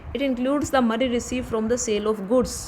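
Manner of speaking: very slow, word by word, as if for notes; slow dictation. Shown as a demonstration. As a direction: dictate each word so students can write. Teacher dictating a definition.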